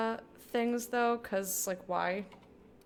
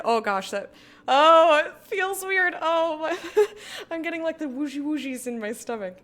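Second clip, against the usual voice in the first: nervous laughing shriek; 6 semitones higher, 9 dB louder than usual. Real, not acted.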